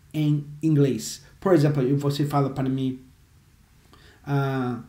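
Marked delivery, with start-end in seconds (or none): none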